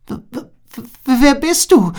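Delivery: high stuttered frightened squeak. A narrator's reading. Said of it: "quiekte Agila". (hohes, stotterndes Quieken vor Angst)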